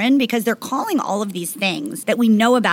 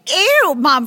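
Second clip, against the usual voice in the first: disgusted; 6 semitones higher, 5 dB louder than usual. Retold or imitated. Teen disgust at mom's suggestion.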